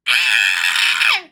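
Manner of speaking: sudden low excited shout of joy; a loud fangirl yelp; excited yell. Real, not acted. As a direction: burst out with a happy yell. Gushing over a great scene.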